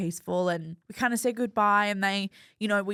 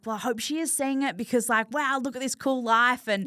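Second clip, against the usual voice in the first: higher, bubbly gushing about a cool life; excited gushing; 5 semitones higher than usual. Retold or imitated. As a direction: gush like you can't believe your luck. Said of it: "being like".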